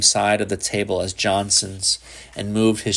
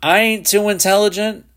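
muttered; 11 semitones higher, 4 dB louder than usual. A narrator's reading. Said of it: "the boy muttered".

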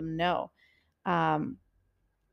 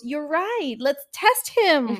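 higher, scheming inner voice, stretched ending; voice in her head; 6 semitones higher, 4 dB louder, much slower than usual. Retold or imitated. Her head urging her to test him, conspiratorial. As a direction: egg yourself on, drawing out the last words. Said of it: "then my head goes".

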